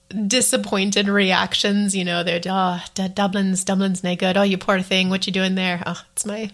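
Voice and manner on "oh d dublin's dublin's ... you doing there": a light, clumsy put-on Irish accent; atrocious Irish accent. Villagers pitying her for living in Dublin, bad Irish accent. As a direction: mimic the locals in a bad Irish accent, barely shifted. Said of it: "my atrocious Irish accent".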